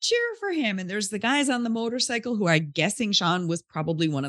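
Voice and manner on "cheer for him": much higher, slow mock call-out; retold yell to crowd. Stranger rallying the crowd for Sean, high slow mock yell. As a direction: call out to the crowd to cheer him on, lightly acted. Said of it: "He's yelling out to the crowd".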